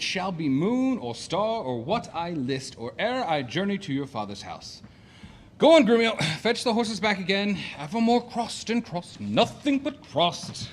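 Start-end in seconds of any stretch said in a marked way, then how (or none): 5.6-7.6 higher and louder call to a servant; a loud, higher command to the servant; calling out orders. Acted. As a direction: shout the order across the yard. Master calls servant to fetch horses.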